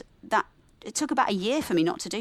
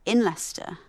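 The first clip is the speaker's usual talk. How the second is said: inner critic. Retold or imitated. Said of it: "tells me".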